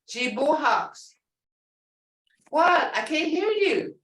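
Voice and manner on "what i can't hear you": mock deaf teacher. Shown as a demonstration. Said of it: "teacher coaxing class response".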